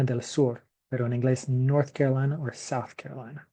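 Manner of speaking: del Sur in Spanish, then fast North Carolina in English. Shown as a demonstration. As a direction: contrast the two versions. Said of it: "en español sería".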